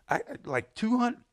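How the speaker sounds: stammered, high and loud put-on voice; imitated sheepish friend. Friend confessing how much money is left, high stammering mock voice. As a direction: stumble upward into a questioning answer.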